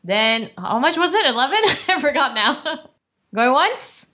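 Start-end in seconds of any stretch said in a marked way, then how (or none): 3.4-4.1 rising auctioneer chant, climbing high; auctioneer call. Acted. Auctioneer calling bids.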